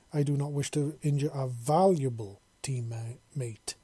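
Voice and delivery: valuable pressed firmly, slow line; stress on valuable. Acted. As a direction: lean hard on valuable, slowly. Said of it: "putting real emphasis on the valuable part".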